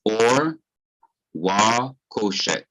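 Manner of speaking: "or", a pause, then "wa koshek" slow and falling; pronunciation demonstration. Shown as a demonstration. Teacher shows the conjunction joining light and darkness, slow demonstration. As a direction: sound out "or wa koshek" slowly, word by word. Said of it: "it is wa".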